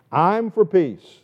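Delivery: I'm for peace slow, high and loud; emphatic I. Shown as a demonstration. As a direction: lean hard on I'm, slowly. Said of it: "That's emphatic in the Hebrew language".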